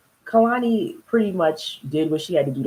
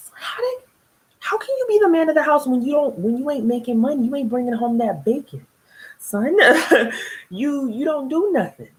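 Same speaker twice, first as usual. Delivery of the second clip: exasperated rant; 10 semitones higher than usual. Real, not acted. Ranting at husband.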